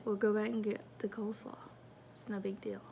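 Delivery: fast, soft whisper; quick whisper. Retold or imitated. Telling Lane what to do, quick soft whisper. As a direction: toss it off lightly under breath. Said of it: "I was like".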